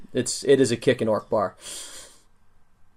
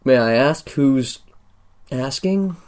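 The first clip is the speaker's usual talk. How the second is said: dwarf guard; 4 semitones higher than usual. Acted.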